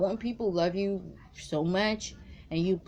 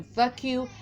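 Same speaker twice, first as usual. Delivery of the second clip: angry curse; 5 semitones higher than usual. Pretend. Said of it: "nothing else she wants to say than".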